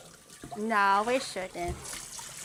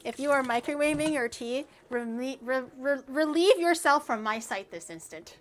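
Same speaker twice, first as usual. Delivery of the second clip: mock-haughty dismissal. Mock-haughty banishment of microwavers.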